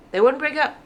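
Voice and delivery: mock disbelief; exasperated. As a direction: throw up your hands on break up. Exasperated emphasis.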